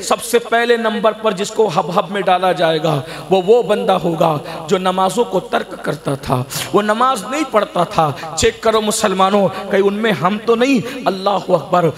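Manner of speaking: steady, insistent sermon delivery; earnest preaching. Real, not acted. Preacher challenges Muslims who neglect prayer, earnest preaching. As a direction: press the congregation with pointed admonition.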